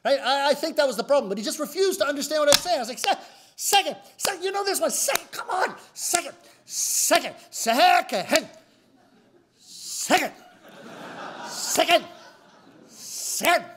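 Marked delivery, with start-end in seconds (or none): 3.0-13.6 frustrated shouting. Retold or imitated. Customer shouting the word at the confused clerk, high frustrated yell. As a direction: yell it at him, higher and higher.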